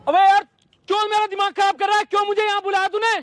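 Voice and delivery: irritated confrontation opening on a loud exclamation; angry outburst. Acted. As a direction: burst out loudly at him, fed up. Boss angrily confronts his employee.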